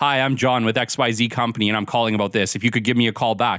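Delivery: low, flat, bland, dull corporate tone. Speaker demonstrating a bad voicemail to listeners: crappy professional voicemail tone. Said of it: "in a crappy professional tone where it's just like".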